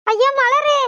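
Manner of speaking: rising panic; frightened. Acted. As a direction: call to a friend as the current pulls you. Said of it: "எனக்கு பயமா இருக்குப்ல".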